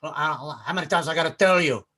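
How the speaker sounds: hint of a movie gangster impression; lightly accented gangster speech, punching line ends; Scarface. Comic quotes a movie gangster's speech on power, gangster impression. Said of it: "I remember that speech from Scarface".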